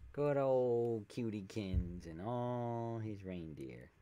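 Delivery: slow, drawn-out cutesy pet talk; lightly put-on talking-to-kitty voice. Shown as a demonstration. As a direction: coo it to a cat, stretching the vowels. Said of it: "that's how I say it".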